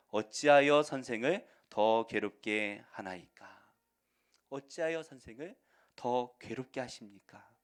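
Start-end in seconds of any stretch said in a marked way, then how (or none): 0.1-3.7 solemn, drawn-out Bible reading; slow emphatic scripture reading. Shown as a demonstration. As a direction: read it slow and loud, weighing each word. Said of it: "삼십오 절 말씀을 한번 보실까요?".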